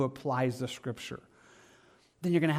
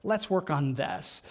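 softer, tender coaxing; a hint of a patient, kind helper; gentle inviting voice; 6 dB quieter than usual. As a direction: invite them kindly to work on it. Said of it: "Always his voice is like".

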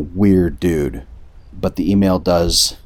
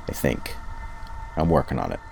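Ulfric Stormcloak voice; 4 semitones lower, 10 dB quieter, faster than usual. Shown as a demonstration. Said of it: "my Ulfric Stormcloak voice".

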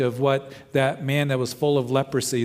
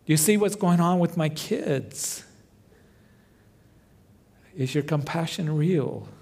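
higher, pleading cry to God; desperate prayer; 3 semitones higher than usual. Acted. Doubting believer asks God if he cares, higher, pleading. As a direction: plead with God as if hurting and unsure.

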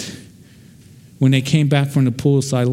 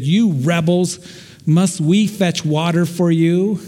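higher, half-acted angry yell at the crowd; Moses yelling at rebels; 6 semitones higher, slower than usual. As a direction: throw a retold rebuke at the people, pitched up. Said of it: "he yelled at the people".

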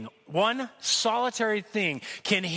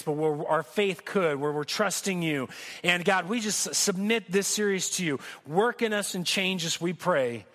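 closing prayer. Acted. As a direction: pray it humbly over the church. Pastor prays over the church.

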